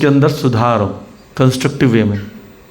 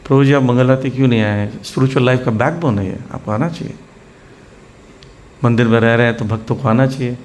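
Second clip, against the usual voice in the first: soft, caring tone from a senior devotee; soft correction. Shown as a demonstration. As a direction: correct him kindly, without hurting him. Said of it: "soft way में से बोलेंगे".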